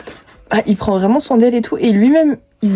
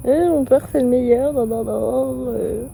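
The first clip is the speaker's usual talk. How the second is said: mocking imitation; slower than usual. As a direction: mimic her mockingly, dragging out the end. Mimicking a girl praising her father. (imitation moqueuse)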